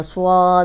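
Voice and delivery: سواد with an added w sound; wrong added waw. Shown as a demonstration. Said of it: "واو کا اضافہ نہیں کرنا". (واو کے اضافے والا غلط تلفظ)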